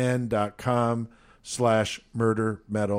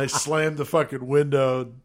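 ordinary delivery

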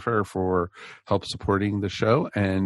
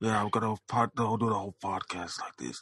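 put-on gravelly gangster voice; 6 dB quieter than usual. On a podcast, after being told a godfather needs a raspier voice: raspy Godfather voice. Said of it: "Don't you need more of a raspy voice as a Godfather?".

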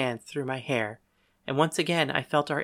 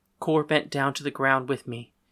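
ordinary delivery, nothing marked

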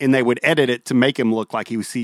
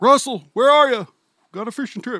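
put-on angry dad voice, higher; 12 semitones higher than usual. Imitating the neighbor dad looking for his missing son: impression of a mad neighbor dad. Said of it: "That's my impression of him".

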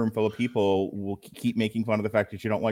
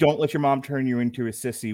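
usual speaking voice

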